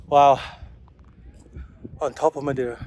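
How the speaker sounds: ordinary talk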